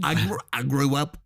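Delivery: stumbling attempt at an Australian accent; bad Australian accent. Answering co-host as a bush Aussie, bad Australian accent. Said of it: "can't even do an Australian accent".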